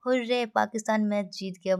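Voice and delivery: lightly acted cheer for an example; a touch of delight, lifted on "हुर्रे"; mild joy. Shown as a demonstration. Teacher showing an exclamation after a match win, mildly joyful. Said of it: "बहुत ज़्यादा खुशी से कह रहे होते हैं".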